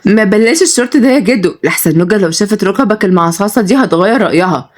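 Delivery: put-on lightly teasing young woman; mildly playful ribbing. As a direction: tease grandpa with a touch of merriment. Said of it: "وياسمين بتقول بمرح".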